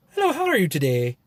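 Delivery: put-on amateur Irish accent. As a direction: greet with a lightly faked Irish lilt. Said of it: "thinking I was from Ireland".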